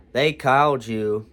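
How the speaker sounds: slow, mildly cool retelling; drawn-out, mildly pointed mock reply. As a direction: imitate a girl gone a bit unfriendly. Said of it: "She's not as friendly anymore".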